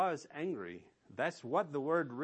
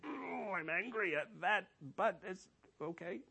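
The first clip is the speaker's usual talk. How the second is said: mock excuse; 6 semitones higher than usual. Preacher mocks a believer excusing his anger, in a high mocking voice. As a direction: lightly sing out the flimsy excuse.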